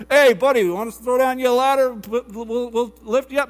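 very loud hail, stretched out; bullhorn voice. Acted. Helicopter crew hailing the hanging man, mock bullhorn. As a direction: imitate a call through a bullhorn. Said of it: "a helicopter with a bullhorn".

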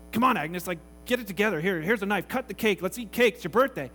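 loud, brisk coaxing; impatient urging. Retold or imitated. Harry prodding tearful Agnes again.

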